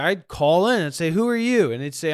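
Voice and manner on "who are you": loud, high challenge; mock challenge. Host grilling his own caller, loud demand. Imagined call-in with himself.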